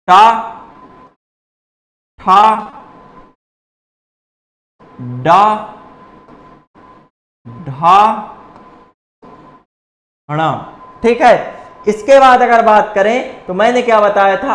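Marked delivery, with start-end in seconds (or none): 0.1-10.5 टा ठा डा ढा णा spelt out one by one, with long pauses between; teacher sounding out letters; syllable recital. Shown as a demonstration. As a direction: demonstrate each retroflex sound slowly. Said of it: "यहाँ पर जो लिखा जाएगा".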